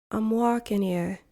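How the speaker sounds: a hint of New York City accent; Northeast accent. Shown as a demonstration. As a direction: lightly demonstrate a Northeast US accent. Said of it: "In the Northeast".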